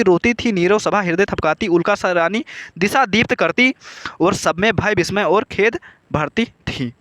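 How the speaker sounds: measured classroom verse reading, lightly sing-song; poem recitation. Acted. Teacher reciting Kaikeyi's verse to students before explaining it, poem recitation. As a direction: recite the verse line by line, evenly.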